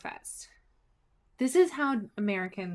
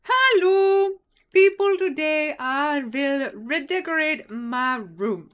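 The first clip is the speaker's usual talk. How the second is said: loud, slow, high showman voice; announcer voice; 6 semitones higher, 9 dB louder, slower than usual. Pretend. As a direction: boom it out like a host. Mock announcer intro voice.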